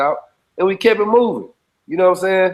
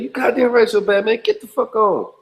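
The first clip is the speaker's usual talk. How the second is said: higher, dismissive mock cop voice; a lightly voiced irritated officer; angry cop; 6 semitones higher than usual. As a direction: wave him off like an annoyed cop. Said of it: "He like".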